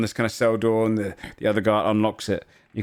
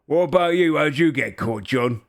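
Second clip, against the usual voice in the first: lightly voiced ogre, pitched up at first; inquisitive ogre; 4 semitones higher than usual. Ogre asking John about his capture, lightly put-on voice. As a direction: turn the question on him. Ogre questions player character.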